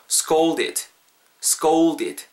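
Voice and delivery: "scolded" with a clear "ou" glide before the l; OU in middle. Shown as a demonstration. Teacher has learners repeat, "scolded" with a full "ou" in the middle. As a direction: let "oo" sound inside "scolded". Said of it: "중간에 이제 우 사운드가 들어간다라는".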